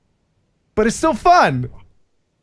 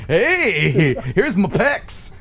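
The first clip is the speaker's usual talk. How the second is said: pageant bodybuilder; much slower than usual. Acted. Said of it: "would appear on a sash over a well-oiled, uh, body".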